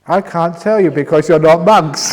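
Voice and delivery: talking through helpless laughter; can't stop laughing mid-sentence. Real, not acted. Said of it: "Sorry, I can't stop laughing".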